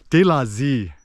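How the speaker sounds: "zi" with a buzzing z sound, Saigon style; southern zi. Shown as a demonstration. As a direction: say "De la zi" like Saigon speakers. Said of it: "Ho Chi Minh City will say".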